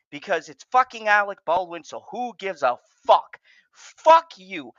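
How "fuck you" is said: loud, higher furious curse; angry outburst. Real, not acted. Furious host cursing the people responsible, loud. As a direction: spit it out at them.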